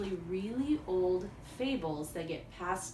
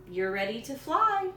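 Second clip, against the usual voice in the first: louder, teasing trickster crow; sly crow voice; 4 semitones higher, 5 dB louder than usual. Acted. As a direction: sell the trick with a grin. Old Man Crow tricking Coyote.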